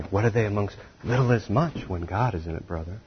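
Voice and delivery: hushed preacher's aside; quiet preacher line. Shown as a demonstration. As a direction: murmur the punchline gently to the congregation. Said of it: "This is where the preacher gets fired up".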